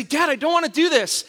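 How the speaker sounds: put-on whiny kid. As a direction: protest to dad at bedtime. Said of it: "And I'd say".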